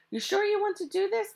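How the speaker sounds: slow, puzzled question; asked slowly. Acted. Mac slowly questions the hijackers, puzzled. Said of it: "Mac asked slowly".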